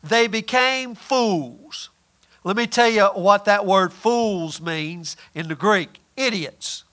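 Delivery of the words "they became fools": scripture reading. Acted. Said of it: "Paul says in Romans".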